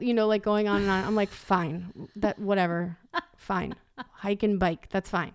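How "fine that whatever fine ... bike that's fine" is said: grudging give-in. Retold or imitated. She gives in grudgingly.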